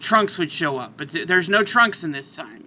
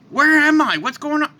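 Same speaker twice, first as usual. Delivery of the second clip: higher, louder bewildered cry; suddenly lost and alarmed; confused; 8 semitones higher, 4 dB louder than usual. Acted. Confused arrival through portal.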